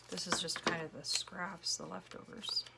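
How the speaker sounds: worn-out voice; losing voice. Real, not acted. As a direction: voice starting to go. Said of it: "starting to lose my voice".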